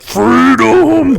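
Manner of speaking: high, loud mock battle cry; hammed-up imitation of a heckler yelling; heckler's yell. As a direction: shout it like a woman heckling from the crowd. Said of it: "this husky lady steps up".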